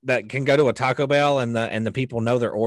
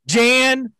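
movie quote voice; 10 semitones higher, 4 dB louder, much slower than usual. Retold or imitated. Quoting film, high loud.

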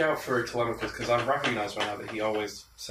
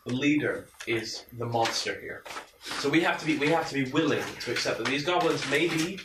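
rallying leader. Acted. Character rallying the camp against goblin leader, earnest. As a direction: stir the crowd against the goblins.

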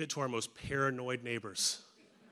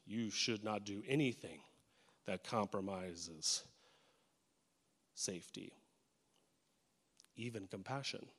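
slow, quiet warning; hushed cautious voice; 4 semitones lower, 9 dB quieter than usual. Acted. A little inner voice urges safety, slow and hushed. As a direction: let it drop to a timid hush. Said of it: "The little voice that says".

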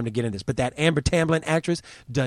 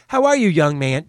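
mocking reporter; 3 semitones higher, 6 dB louder than usual.

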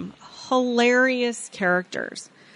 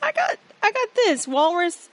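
walrus voice; 8 semitones higher than usual. Retold or imitated. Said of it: "the walrus was going".

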